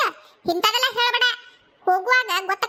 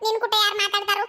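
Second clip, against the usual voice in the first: laughing dismissal; 2 semitones higher than usual. Acted. Sister brushes off brother, laughing.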